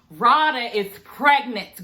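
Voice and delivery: slow, emphatic announcement; gossipy reveal. Real, not acted. Telling viewers the big pregnancy news, drawn-out gossipy reveal. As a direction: draw it out like juicy news.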